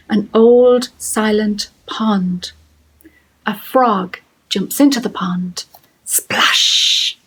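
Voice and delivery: slow, spaced-out poetry reading with a drawn-out splash; haiku reading. Acted. Teacher reading a frog haiku to pupils, slow and measured. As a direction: read it line by line, leaving room.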